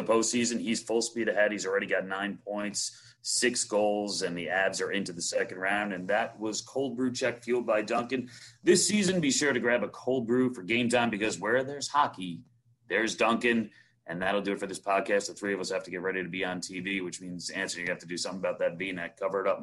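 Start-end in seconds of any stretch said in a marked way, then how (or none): 5.9-13.7 ad read. Acted. Sponsor outro ad read.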